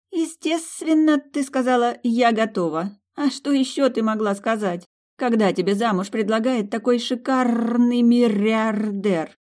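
put-on high, slow gushing girlfriend voice; gushing friend. A narrator's reading. Susie gushing to Milly about the billionaire, high and dreamy. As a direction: swoon over the billionaire.

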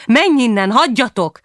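high, urgent narrated shout. A narrator's reading. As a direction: push them away with your voice. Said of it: "Abba kéne hagyni a kiabálást".

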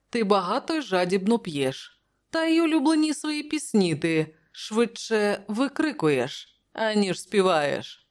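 high-pitched friendly teasing; smiling Prospero. Acted. Prospero mocks the king's singing, amused. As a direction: rib him lightly, voice lifted. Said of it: "посміхнувшись, сказав Просперо".

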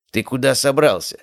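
high giggly teasing question; old man chuckling as he asks; giggling old man. A narrator's reading. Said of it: "хихикнул старик".

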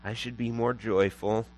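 slow, drawn-out self-pitying moan; mock guilty. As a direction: wallow in guilt, stretching the words out. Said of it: "beginning to feel guilty".

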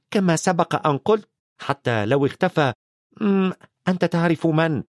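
a stern witch, lightly voiced; McGonagall. McGonagall returns to You-Know-Who, firmly. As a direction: pick up the point firmly.

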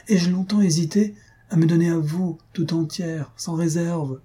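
earnest protest. A narrator's reading. Faustine protests her love to Mario.

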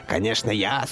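slow, drawn-out sibilant snake voice; angry hissing snake. A narrator's reading. Crowned snake claiming to be the main one, angry hiss. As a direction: stretch the words and hiss on every s. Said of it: "сердито зашипела с еловой ветки змея".

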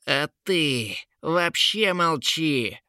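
slow furious order to shut up; mock furious outburst; spluttering yell. A narrator's reading. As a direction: spit it out slowly, enraged. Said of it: "закричал, брызжа слюной".

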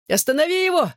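high shrill shriek for help; scared boy screeching to a friend for rescue. A narrator's reading. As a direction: squeal it out in terror. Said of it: "проверещал Ронан".

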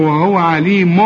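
عليم ending in a clear n, "alimun"; clear tanween. Shown as a demonstration. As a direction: sound the n at the end of عليم. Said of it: "تنوين اهو". (إظهار التنوين في عليم)

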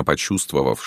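plain reading voice

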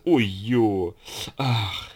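acted ticklish ecstasy; blissful moans. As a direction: groan of relief while being scratched. Uncle scratching himself in bliss.

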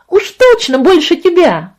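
put-on high, loud childish insistence; insistent girl. A narrator's reading. Little sister insisting to her brother, high and loud. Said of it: "заверила Каролина".

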